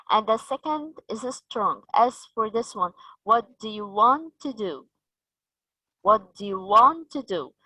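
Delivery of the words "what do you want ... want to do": first DO unstressed, WANT and final DO stressed; weakened first DO. Shown as a demonstration. Teacher showing strong and weak sounds, final DO stressed. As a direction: weaken DO YOU, stress the last DO. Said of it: "We have weakened the first part".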